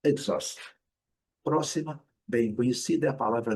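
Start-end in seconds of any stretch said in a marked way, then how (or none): 0.0-0.6 "exhaust" whispered, starting "egg"; repeating "exhaust" in a whisper. Shown as a demonstration. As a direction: whisper "exhaust" again as /ekzɔst/.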